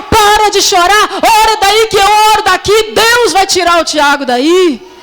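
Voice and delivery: high, insistent motherly order; mother's stern command. Retold or imitated. New-convert mother tells pastor daughter to pray, stern and high. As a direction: imitate a mother firmly rallying her daughter. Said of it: "na hora que a minha mãe falou assim".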